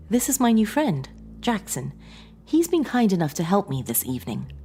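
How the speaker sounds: Sarah's voice. A narrator's reading.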